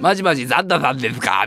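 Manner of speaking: put-on a kid asking excitedly; child voice. Child calling Santa. (子供っぽい声)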